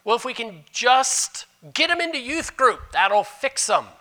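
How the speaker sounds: high naive mock voice; mocking wishful thinking. Pastor mimics churchgoers' easy fixes, high and mocking. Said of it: "No, it doesn't".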